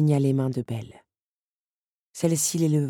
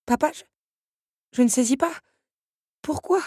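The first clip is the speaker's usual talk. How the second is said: high, distressed bewilderment; despairing, voice breaking; 11 semitones higher, 5 dB louder than usual. A narrator's reading. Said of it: "se désespéra Belle. Sa voix se brisa". (désespoir, voix qui se brise)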